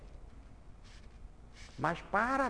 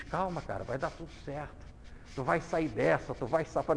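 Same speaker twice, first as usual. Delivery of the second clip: calm a sick friend gently; soothing words; 2 semitones lower than usual. Retold or imitated. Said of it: "E tu diz".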